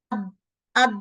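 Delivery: আদ with the tongue too far forward; wrong dal. Shown as a demonstration. Teacher showing the wrong tongue position. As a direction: show the error আদ, dal hitting the yellow spot. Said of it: "এরকম sound করবে".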